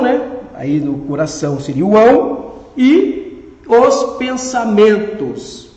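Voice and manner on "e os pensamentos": "E os pensamentos" very slow, spaced out; teacher slowly sounding out "E os pensamentos"; tonic stress demonstration. Shown as a demonstration. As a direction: stretch "E os pensamentos" to show its stresses. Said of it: "Tônica está nos".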